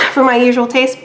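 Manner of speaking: sick voice between coughs; coughing while talking; coughing fit. Real, not acted. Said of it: "I'm coughing a lot and I'm sick".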